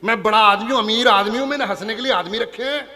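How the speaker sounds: snooty rich man. Retold or imitated. Rich guest in the audience refusing to laugh, pompous and loud. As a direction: boom it out like a self-important moneybag. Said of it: "भाई साहब, आप हंस क्यों नहीं रहे?".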